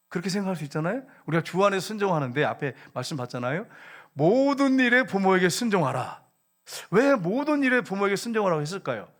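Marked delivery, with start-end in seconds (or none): 4.1-6.2 모든 stretched out high; slow verse quote, leaning on 모든; stress on 모든. Shown as a demonstration. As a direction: hold 모든 long to drive it home. Repeats verse stressing its scope.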